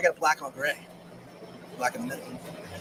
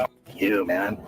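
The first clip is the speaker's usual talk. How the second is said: much lower gruff put-on voice; mock tough guy; 12 semitones lower, slower than usual. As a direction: drop the voice way down like a tough trucker. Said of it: "quoting truck guys".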